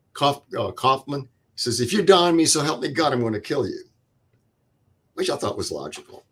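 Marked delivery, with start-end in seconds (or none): 1.8-3.8 retold yell. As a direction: bark the threat, then let it drop. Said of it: "he yells at him".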